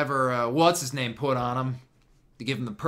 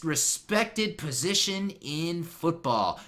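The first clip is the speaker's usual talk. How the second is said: emphatic hype; 6 semitones higher, 6 dB louder, slower than usual. Real, not acted. Hyping the player's position.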